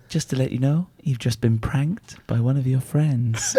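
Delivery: a hint of a sultry Russian caller, delivered softly and slowly; Russian woman impression. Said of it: "when he's doing that woman's accent".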